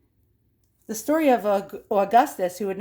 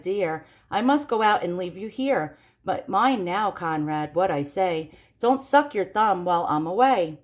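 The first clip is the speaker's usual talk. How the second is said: sing-song rhyme reading; story narration. Acted. Reading a creepy children's book aloud, sing-song. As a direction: read the old verse with rhythm.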